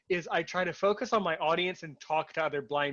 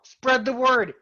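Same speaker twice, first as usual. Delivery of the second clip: raised, louder quoted slogan; imitated rallying call; 7 semitones higher, 7 dB louder, slower than usual. Host quoting someone who said it too, rallying call. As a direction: punch it out high as a quote. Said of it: "Scheinber said it just as well".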